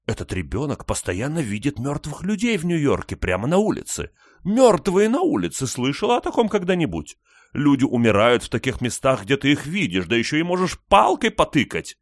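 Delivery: high, strident grandmother voice; a theatrical grandmother holding court; old Southern lady voice. A narrator's reading.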